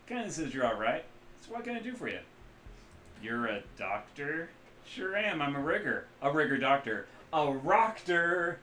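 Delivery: loud, loose Midwestern rigger; Midwestern accent. Acted. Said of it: "loose Midwestern accent".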